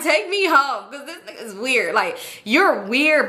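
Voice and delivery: imitating her own inner outburst; exasperated thought. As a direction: vent it like you're fed up. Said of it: "But I ain't said it".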